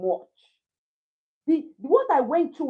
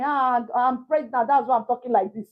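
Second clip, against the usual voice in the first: imitated openly pregnant chatter. Pregnant woman telling a caller her news, lightly imitated white-person manner. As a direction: lightly play the open, white-person style of sharing. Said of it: "I was like this white person".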